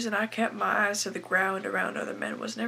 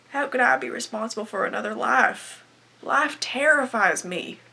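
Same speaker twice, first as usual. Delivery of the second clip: louder, distressed protest; anguished dread; 5 dB louder than usual. Acted. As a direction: cry out in dread at the burden. Acted dread of motherhood and life.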